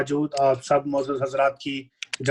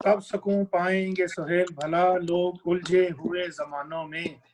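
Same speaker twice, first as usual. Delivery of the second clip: measured verse delivery, pitched above talk; ghazal recitation. Acted. Poet offers couplet to listeners, ghazal recitation. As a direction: recite the couplet to a mushaira audience.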